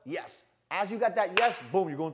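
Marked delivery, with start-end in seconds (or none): 0.0-0.4 high mock yes. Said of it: "They're like".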